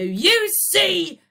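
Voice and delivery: high loud screech; screamed. Acted. Boyle to the pupils, screaming. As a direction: shriek it at them. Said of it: "screamed Boyle".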